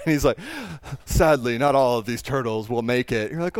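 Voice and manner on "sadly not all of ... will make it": lower, grave British nature-documentary narration; a mild take on a solemn British documentary narrator; understated Attenborough-style British voiceover; David Attenborough. Retold or imitated. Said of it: "David Attenborough with his really classy British voice".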